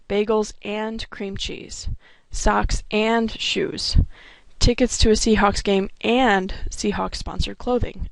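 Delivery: slow lists, leaning on "and" each time; stress on and. Shown as a demonstration. Teacher listing paired goods, stressing "and" slowly. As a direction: press the word "and" to show the goods go together. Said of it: "Notice the emphasis on the and".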